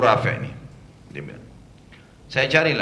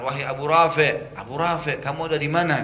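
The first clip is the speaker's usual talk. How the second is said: calling out; 3 semitones higher than usual. Retold or imitated. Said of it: "memanggil Abu Rafi' dengan suara".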